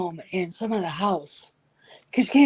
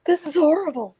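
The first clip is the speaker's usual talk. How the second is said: high, loud, revolted cry; dramatic disgust; 9 semitones higher, 5 dB louder than usual. Retold or imitated. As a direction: overplay the horror. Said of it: "I'm like".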